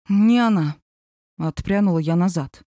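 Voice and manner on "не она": insistent, louder repeat; firm repeat. Acted. Sophie recoiling from Lev, insisting. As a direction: press the point again.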